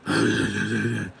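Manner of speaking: wordless throaty mock growl; rattling gruff gibberish growl; Batman. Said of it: "you sound like a grunge singer".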